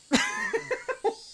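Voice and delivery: high laughing burst at herself; burst of laughter. Real, not acted. Player laughs at her own slipped English accent. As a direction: laugh it off, amused.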